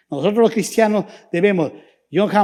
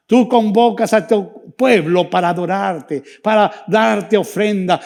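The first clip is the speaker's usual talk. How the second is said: fervent prayer. Acted. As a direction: lift the church to God in earnest. Pastor prays for the church. (oración ferviente)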